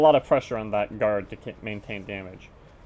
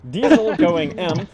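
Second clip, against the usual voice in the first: announcer roll call; 7 semitones higher, 10 dB louder than usual. Acted. Announces the team line-up.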